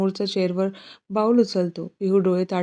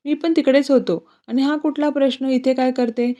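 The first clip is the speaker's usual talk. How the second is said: annoyed retort; 5 semitones higher than usual. Acted. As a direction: fire back at the rude aunt. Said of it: "प्रांजल चिडून बोलून". (चिडून प्रत्युत्तर)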